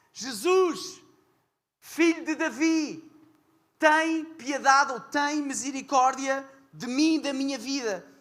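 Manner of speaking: slow, loud, high calling out, one word stretched long. Retelling the blind man crying out again: imitating an even louder shout. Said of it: "gritar ainda mais alto".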